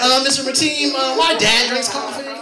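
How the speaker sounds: put-on high, slow little kid voice; slow, hesitant child voice. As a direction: talk like a timid five-year-old. Voicing a kindergarten kid.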